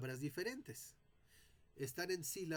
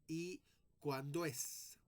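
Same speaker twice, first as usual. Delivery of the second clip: slow reading; much slower than usual. Shown as a demonstration. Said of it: "sino que voy a leer".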